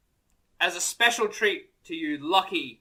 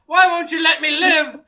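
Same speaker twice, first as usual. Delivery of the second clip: put-on whiny kid; 8 semitones higher, 7 dB louder than usual. Child whining at mother skit.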